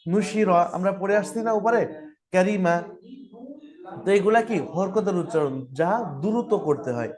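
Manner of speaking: normal talking voice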